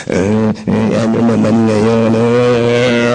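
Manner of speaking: put-on low, dismissive old father's voice; a father snapping back in grief; lightly voiced annoyed father; gruff father retort. Father answers sharply.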